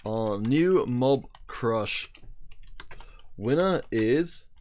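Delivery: quacking cartoon duck voice, slow. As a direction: squawk it out like a duck. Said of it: "trying to actually speak in the duck voice".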